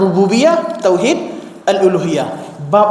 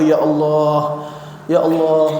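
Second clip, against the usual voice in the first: drawn-out, pleading call to God; lightly acted weepy supplication; imitating tearful prayer; 3 semitones lower, slower than usual. (meniru doa sambil menangis)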